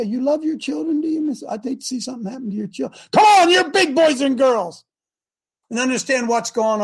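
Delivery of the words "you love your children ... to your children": mock mafia threat. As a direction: purr a veiled threat about her children.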